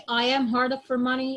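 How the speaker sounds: very slow, every word spaced out; slow dictation. Shown as a demonstration. Teacher spelling out an example sentence slowly for students. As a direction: dictate it word by word so the class can copy. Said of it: "it can be".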